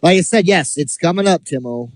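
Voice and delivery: smug scheming heel manager voice; wrestling heel manager. Acted. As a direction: gloat like a wrestling villain manager. Ben plays the potentate hate manager.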